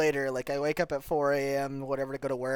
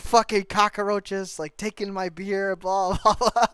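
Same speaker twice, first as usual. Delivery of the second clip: slow, higher mock gangster tirade; Scarface-style rant; 4 semitones higher, slower than usual. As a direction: sneer it like a movie crime boss. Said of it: "Scarface-esque fucking speech".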